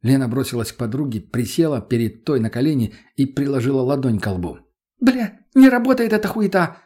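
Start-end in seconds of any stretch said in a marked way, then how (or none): 5.0-6.8 loud, very high squeal. A narrator's reading. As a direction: squeal it out in frustration. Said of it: "взвизгнула она".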